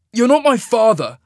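angry retort. A narrator's reading. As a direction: snap back in defiance. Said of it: "Cole shot back".

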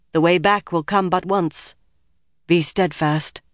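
solemn ritual pronouncement at full voice; measured, ceremonial warning; normal volume. A narrator's reading. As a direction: declare it clearly and formally. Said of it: "Her voice climbed to a normal volume".

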